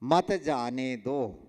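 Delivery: मत जाने दो as one slow phrase after a pause; mat after comma. Shown as a demonstration. Teacher reading the sentence after the comma, mat after comma. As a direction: keep मत joined to जाने दो, unhurried. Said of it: "अल्प विराम लगा दिया".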